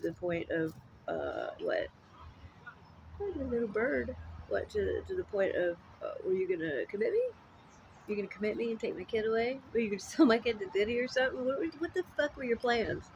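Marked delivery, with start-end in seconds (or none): 6.2-13.0 mocking outrage. Mocking accusation, laughing.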